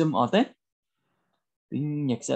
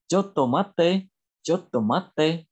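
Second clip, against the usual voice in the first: drawn-out, slightly higher repeat; slow language model; 4 semitones higher, slower than usual. Shown as a demonstration. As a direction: model the Japanese slowly for learners. Teacher repeats phrase for learners. (đọc mẫu kéo dài, chậm)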